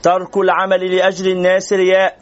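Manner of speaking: slow, spaced out for note-taking; slow dictation. Shown as a demonstration. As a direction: read it slowly so they can write. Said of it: "اكتبوا هذا لو سمحتم".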